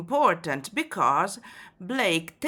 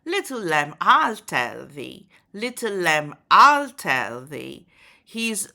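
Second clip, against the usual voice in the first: poem recited; 4 dB louder than usual. Shown as a demonstration.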